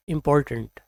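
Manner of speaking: इम्पोर्टेंट with a reduced last vowel; correct pronunciation. Shown as a demonstration. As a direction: say इम्पोर्टेंट as "im-POR-tnt". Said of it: "right pronunciation है".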